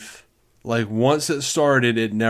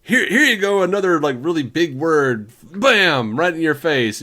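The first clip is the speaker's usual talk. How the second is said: loud punchy delivery; 3 semitones higher, 3 dB louder than usual. Retold or imitated. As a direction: shove each word at them. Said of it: "And then he'll, like".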